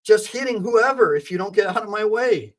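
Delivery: a hint of a fierce mother; determined mother. Mother telling police to move aside, lightly voiced. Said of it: "and I'm like".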